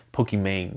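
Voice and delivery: Pokemon with a twanged "mayng" ending; Pokemon ending in "mayng", not "mon"; playful mispronunciation. Pretend. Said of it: "called Pokemon".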